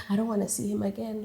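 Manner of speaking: soft and fast, shrinking back; quiet refusal. Retold or imitated. Telling her friend she won't face him, soft. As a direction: murmur it, scared and small.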